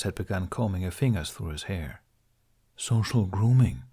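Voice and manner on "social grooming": slow dragon remark. Acted. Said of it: "Toothless remarked".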